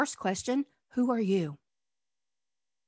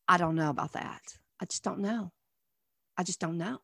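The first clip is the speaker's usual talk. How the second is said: soft, trailing mumble of someone lost; unsure mumble; 5 semitones lower, 8 dB quieter, faster than usual. Retold or imitated. Listener in a sermon, voiced as a soft, unsure mumble. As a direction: mutter it like you have no answer.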